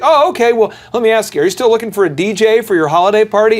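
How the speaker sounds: a salesman turning a wrong number into a sale, mock eager; mock eager pivot. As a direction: jump straight into the sales pitch. Salesman pivots cheerfully on call.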